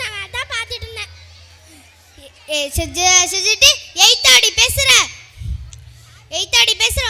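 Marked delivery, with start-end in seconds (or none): 2.2-7.0 loud, spluttering outburst; angry scolding. Acted. Mother reacts to her daughter talking back, angry scolding. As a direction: round on a child who answers back.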